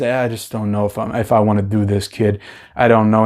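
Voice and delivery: hesitant, unwilling trainer muttering; reluctant Rocky. Retold or imitated. Rocky's reluctance voiced by reviewer.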